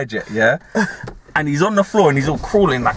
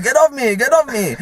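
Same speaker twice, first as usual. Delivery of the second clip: higher, mock protest; Italian man protesting; 9 semitones higher than usual. The Italian man shoving off the crackhead, higher. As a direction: push him off, half-hearted. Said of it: "And he's like".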